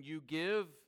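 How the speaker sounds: You pressed firmly before give; emphatic You, falling on give; stress on You. Shown as a demonstration. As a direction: make You carry the emphasis. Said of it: "It's in an emphatic position".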